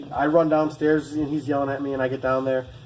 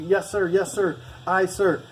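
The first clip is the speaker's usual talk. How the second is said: normal recruit reply; 5 semitones higher, slower than usual. Shown as a demonstration. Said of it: "when they ask you something".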